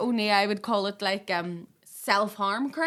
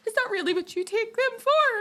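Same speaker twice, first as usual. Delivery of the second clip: incredulous friend; 11 semitones higher than usual. Retold or imitated. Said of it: "he was like".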